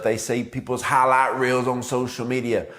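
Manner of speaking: ordinary delivery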